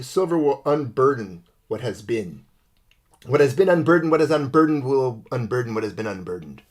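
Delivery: rambling, sing-song mock political speech; Kamala Harris. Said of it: "to quote Kamala Harris".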